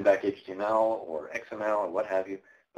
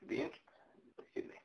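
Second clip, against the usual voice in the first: losing voice; 13 dB quieter, faster than usual. Real, not acted. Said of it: "losing my voice here".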